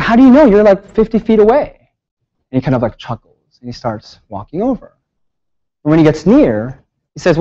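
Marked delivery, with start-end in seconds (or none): 0.0-1.9 high, louder disbelieving retort; incredulous protest. Retold or imitated. Student protesting to the distant tech, high and incredulous. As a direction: push back in disbelief.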